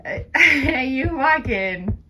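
high sing-song voice for the dog; dog talk. Real, not acted. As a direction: coo at the dog, slow. Talking to her dog Daisy.

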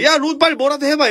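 high, urgent call to a friend; urgent shout. Retold or imitated. Harry yelling at Ron to do something, high and urgent. Calling out in danger.

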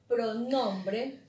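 "pronombre" said slowly, weight on NOM; measured teacher's "pronombre", NOM brought out; stress on NOM. Shown as a demonstration. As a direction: lean on the middle syllable of "pronombre". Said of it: "la que está aquí en medio".

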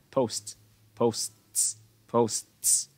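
"posts" with the final TS clearly released; breathed-out T. Shown as a demonstration. Teacher demonstrates audible final T, breathed out. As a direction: let the end of "posts" out on a breath of TS. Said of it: "thì là mình sẽ thở ra".

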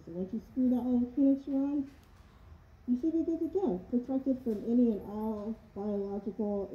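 muffled inside rubber mask; speaking behind sealed respirator; through a gas mask. Real, not acted. Seen 0: Full rubber gas mask covers face and mouth throughout labelled words.

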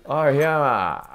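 lightly mimicked senior, long drawn-out call; 威圧する先輩. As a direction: stretch the name out like a senior summoning a junior. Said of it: "そういうジャブが打たれたんですよ". (先輩が後輩を呼ぶ声を軽く真似てゆっくり伸ばす)

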